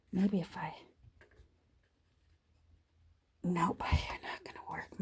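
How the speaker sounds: straining hard against the punch. Real, not acted. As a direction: push with effort through the words. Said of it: "Sorry for grunting and groaning here".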